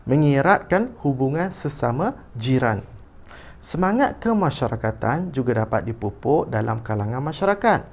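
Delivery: read-aloud with animated intonation; expressive reading. Shown as a demonstration. Teacher models the passage for pupils, expressive reading. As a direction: shape each phrase with a clear tune. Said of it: "baca dahulu petikan dengan intonasi".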